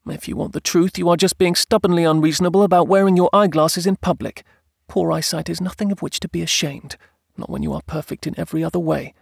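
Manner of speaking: high-pitched wife reasoning firmly, softening after; insistent wife. Acted. Wife lectures husband about eyeglasses, insistent. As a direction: argue in the wife's high voice.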